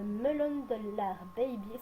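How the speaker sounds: English brand name in a French accent, slowed; a French speaker reading an English product name to her viewers, in a French accent. Real, not acted. Nom anglais dit avec l'accent français. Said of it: "sorry pour mon accent".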